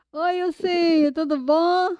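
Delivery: bright, slow and loud hello to a friend; cheerful greeting. Shown as a demonstration. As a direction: greet him with open arms, slowly. Salue Ilcim, démonstration enjouée.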